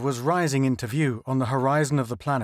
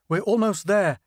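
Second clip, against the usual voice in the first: tense, higher and a little louder; worried as the ground rushes up; nervous; 7 semitones higher, 3 dB louder than usual. A narrator's reading. Bassett warning the pilots of the landing, nervously. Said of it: "Bassett said nervously".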